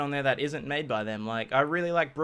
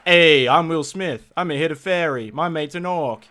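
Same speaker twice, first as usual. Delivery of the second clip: loud, higher mock movie-star voice; big, hammed-up celebrity impression; Will Smith; 4 semitones higher, 9 dB louder than usual. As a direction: call it out like a cocky action star. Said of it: "Will Smith being like".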